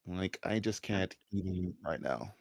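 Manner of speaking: mock valley girl, very slow and soft. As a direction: drag it out, bored and helpless. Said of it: "Kinda like a valley girl?".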